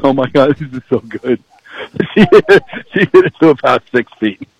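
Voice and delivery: giggling through the words; laughing excitedly. Real, not acted. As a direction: laugh while calling the shot. Laughing at the great shot.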